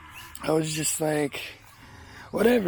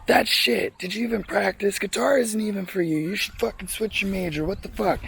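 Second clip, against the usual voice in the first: imitating a cussing teacher; 4 semitones higher than usual. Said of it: "he would actually talk like that".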